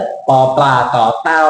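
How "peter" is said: Peter as pee-TUH, hard unaspirated t and heavy last syllable; wrong Thai-style Peter. Shown as a demonstration. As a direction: stretch the end of Peter. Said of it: "คนไทยจะบอกว่า".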